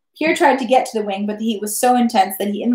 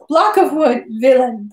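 spiteful shout; 2 semitones higher, 4 dB louder, slower than usual. A narrator's reading. Wife turning on her husband, spiteful half-shout. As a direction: hurl the insult with mild spite. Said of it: "the woman shouted spitefully".

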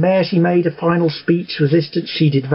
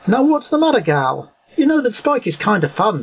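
cheerful Pinkie Pie; 5 semitones higher than usual. Acted. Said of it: "a happy grin appearing on her face".

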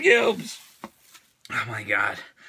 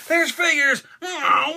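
excited squeal; 6 semitones higher, slower than usual. Real, not acted. Excited unboxing, higher.

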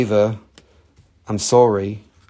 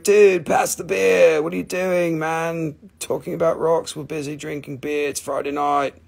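party dude voice; 5 semitones higher than usual. Retold or imitated. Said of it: "And they're like".

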